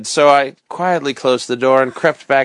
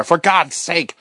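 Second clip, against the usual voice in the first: pleading; 4 semitones higher, slower than usual. Acted. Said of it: "I begged".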